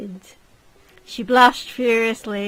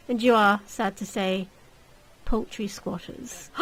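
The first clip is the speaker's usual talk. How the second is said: mock sympathy. Lord mock-sympathizes, then insults.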